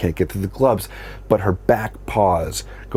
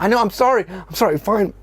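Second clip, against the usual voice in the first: very high squeaky sorry; high put-on whiny sorry; mock kid apology; 11 semitones higher than usual. Son apologizing again.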